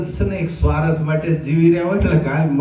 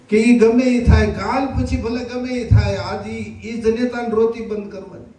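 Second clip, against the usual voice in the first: insistent plea; 5 semitones higher than usual. Retold or imitated. Wife insists on reviving son.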